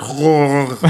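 drawn-out throaty French R noise; imitated French R. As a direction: mimic an exaggerated French R in the throat. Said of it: "how does she hit those R".

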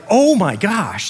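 slow gasping-style exclamation of alarm; panicked feeling. Acted. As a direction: act out mild panic, stretching the words. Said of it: "this feeling like".

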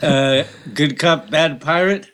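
pirate voice. Acted. Pirate voice, louder.

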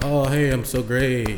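soft, slow smug self-applause; quiet, slow mocking boast; mock self-praise. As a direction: coo it sarcastically. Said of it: "applaud myself".

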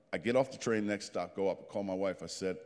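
usual speaking voice

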